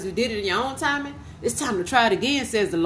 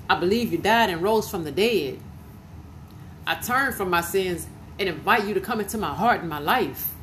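prayer of salvation. Acted. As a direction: lead them gently through the prayer. Leads prayer of salvation to repeat.

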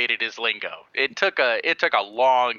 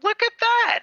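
excited shout. Retold or imitated. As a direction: cheer at the screen. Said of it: "I was like".

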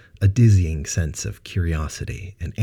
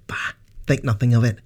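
put-on a warm, quick, higher brush-off in his accent; 7 semitones higher, faster than usual. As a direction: wave off the thanks warmly. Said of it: "he replied warmly".

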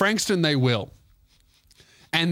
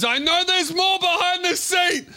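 the driver shouting at the departing couple; shouted accusation. Retold or imitated. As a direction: yell it down the bus. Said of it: "And he goes".

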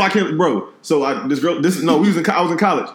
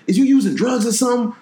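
mock mom; 10 semitones higher than usual. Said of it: "She was like".

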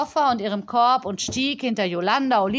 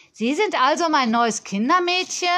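put-on higher, bossy little girl complaining into the phone; a pampered child scolding a supplier; spoilt girl on phone; 6 semitones higher, 4 dB louder than usual. Spoilt girl scolding the supplier on the phone, higher and bossy.

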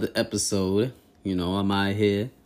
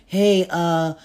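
put-on white girl voice; 4 semitones higher, slower than usual. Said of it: "a white girl is gonna come".

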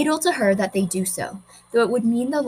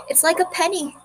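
put-on dreamy young girl; 8 semitones higher than usual. A narrator's reading. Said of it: "she said once, eyes closed".

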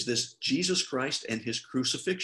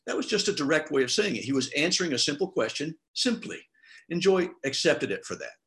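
normal talking voice

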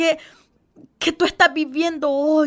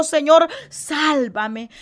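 slow plea; much slower than usual. Acted. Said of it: "y entonces gritó".

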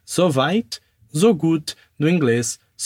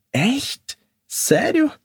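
happy surprise; 7 semitones higher, much slower than usual. Acted. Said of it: "fica surpreso de felicidade".

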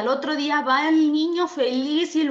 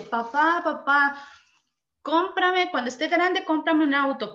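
put-on higher childlike pleading voice; little boy's eager plea, pitched up; child begging; 5 semitones higher than usual. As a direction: beg like a small boy asking his dad. Boy begging father for car.

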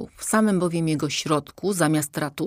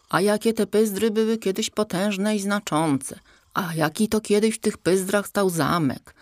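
mocking the king; 5 semitones higher than usual. Horse mocks king's endless reminiscing.

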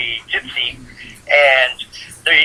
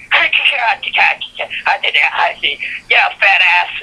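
mock leprechaun; 6 semitones higher than usual. Leprechaun answering a request to sing, high mock voice. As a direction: start way up high like a little leprechaun. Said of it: "And the leprechaun's like".

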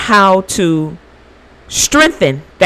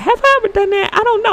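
playful self-tease; faster than usual. Pretend. Teasing herself about re-gifting.

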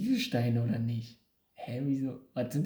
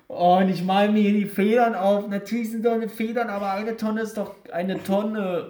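exasperated rant; 5 semitones higher, 4 dB louder than usual. Real, not acted. Ranting at own mistake.

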